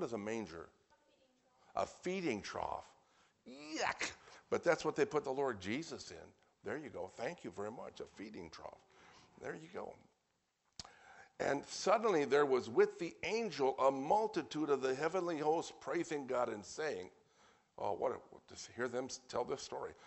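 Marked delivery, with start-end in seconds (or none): 3.5-4.1 high-pitched, squeaky "yuck"; playful disgust. Pretend. Reacting to a feeding trough. 11.4-17.1 projected, measured Bible reading; scripture reading. Real, not acted.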